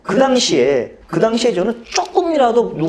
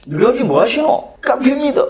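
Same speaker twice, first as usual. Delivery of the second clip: film scene quote; 5 semitones higher than usual. Retold or imitated. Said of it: "또 그런 거야".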